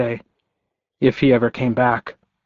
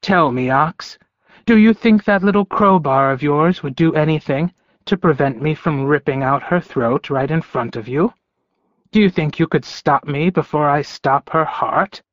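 lightly voiced taunting wolf villain; a hint of a sneering predator; menacing wolf; 3 semitones higher than usual.

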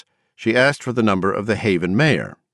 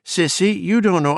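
pleading mother voice; 12 semitones higher than usual. A narrator's reading.

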